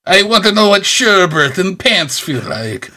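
slow, high Irish brogue sliding into pirate; pirate-ish Irish accent. Retold or imitated. Host explaining how his Irish accent slides into pirate. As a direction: play O'Hara, all brogue and pirate. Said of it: "every time I try to do an Irish accent".

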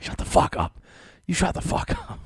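a hushed, breathy fight in the dark; half-whispered mock bicker, rising high on the second line; mock whisper-yell. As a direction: yell at your partner without waking the parents next door. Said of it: "we're, like, whispering".

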